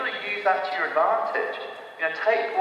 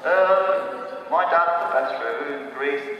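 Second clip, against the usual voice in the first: lightly put-on Greek accent, slowed; mock Greek-accented English; much slower than usual. Greek guide speaking English to a tourist, light Greek accent. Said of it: "English with a funny accent".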